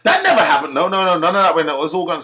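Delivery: a hammed-up mum protesting; mock outraged mother cutting him off; indignant mum. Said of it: "she didn't pull him up and say".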